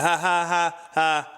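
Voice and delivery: high, fake "ha ha" laughs; forced laugh-off. Brushing off her joke about his teeth, imitated forced laugh. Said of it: "so I just laugh it off".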